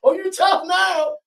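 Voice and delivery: high, slow mocking taunt; mocking dad. Father mocking his son for acting tough, slow high taunt. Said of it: "Now he go".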